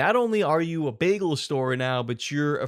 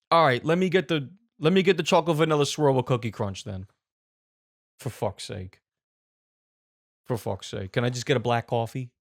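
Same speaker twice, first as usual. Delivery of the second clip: angry Italian man; 2 semitones lower than usual. Acted. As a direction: play a lightly voiced, exasperated Italian guy. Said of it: "Angry Italian man at the coffee shop".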